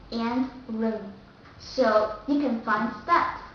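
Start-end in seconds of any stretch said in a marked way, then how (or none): 0.7-1.1 loose, relaxed Vietnamese R in "rừng". Shown as a demonstration. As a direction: say "rừng" with a soft-tongued Vietnamese R. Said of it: "R sound in Vietnamese is much more relaxed".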